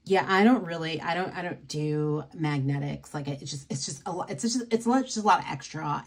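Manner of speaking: lightly voiced mock complaint; a hint of a put-upon maker; Jen and Barry's voice. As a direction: act out the maker's half-hearted shrug. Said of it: "let me get my Jen and Barry's voice on".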